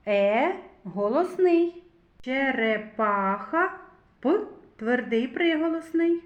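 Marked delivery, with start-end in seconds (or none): 2.2-3.8 Черепаха slowed, leaning on the п; drawn-out sound analysis. Shown as a demonstration. Teacher to class, slowly sounding out Черепаха. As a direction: linger on the п in Черепаха. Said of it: "Робимо звуковий аналіз слова".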